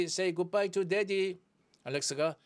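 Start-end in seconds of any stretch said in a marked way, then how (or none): 0.0-1.4 very slow, clear; slow model reading. Shown as a demonstration. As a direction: spell out each word slowly. Teacher repeats model line slowly.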